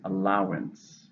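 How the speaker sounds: slow citation of "Allowance", weight on its middle syllable; stress on second syllable. Shown as a demonstration. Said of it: "Stress is on the second".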